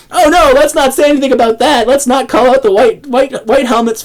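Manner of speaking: sarcastic mock. Sarcastic mock of media silence.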